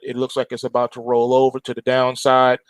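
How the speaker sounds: normal talking voice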